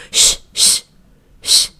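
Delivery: voiceless sneaky shush; shushing whisper. Retold or imitated. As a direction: hush like a sneaky toddler. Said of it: "She goes".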